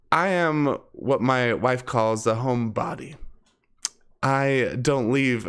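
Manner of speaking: ordinary talk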